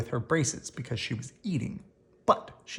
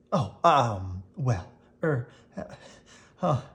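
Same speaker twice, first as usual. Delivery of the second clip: flustered stammer; 2 semitones lower, slower than usual. Acted. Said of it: "turning pink".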